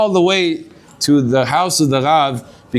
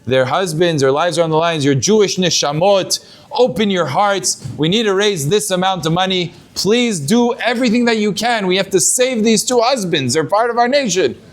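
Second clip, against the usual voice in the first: rising, pleading appeal; mild retold plea to open their hearts; tearful plea; 4 semitones higher than usual. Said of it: "He's, he's crying to them".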